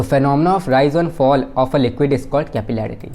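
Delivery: slow, word by word for notes; measured dictation pace. Shown as a demonstration. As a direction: dictate it so students can write.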